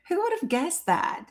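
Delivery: high-pitched feigned innocence; mock disbelief. Streamer teasing viewers whose nerve was touched, mock disbelief. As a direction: act surprised, voice lifted high.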